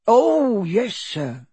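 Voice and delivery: high, eager elf voice; earnest. A narrator's reading. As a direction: start on a high, heartfelt "oh". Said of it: "said Dobby earnestly".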